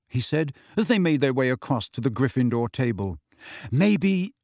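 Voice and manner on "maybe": high, tentative musing; thoughtful. A narrator's reading. Hermione puzzling over Hagrid's absence, thoughtful. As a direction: muse aloud, pitched up. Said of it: "said Hermione thoughtfully".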